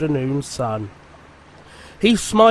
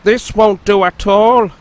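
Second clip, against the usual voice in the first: higher, sniffy grumble; proud engine grumbling at his new shed; 5 semitones higher, 5 dB louder than usual. A narrator's reading. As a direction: complain about the shed. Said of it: "grumbled Sir Handel".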